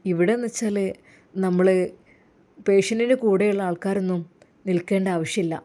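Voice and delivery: low, smooth pushy suitor; sleazy villain. Acted. Jaseer tries to lure Rasiya from hospital, low and smooth. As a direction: coax her out for tea.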